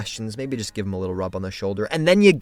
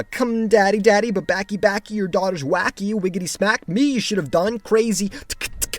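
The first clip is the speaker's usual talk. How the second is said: put-on crazy old lady; 8 semitones higher than usual. Reciting crazy old lady rhyme.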